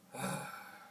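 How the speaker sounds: breathy relaxed exhale; airy exhale. Shown as a demonstration. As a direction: let the air out loosely. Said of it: "just relaxing your throat".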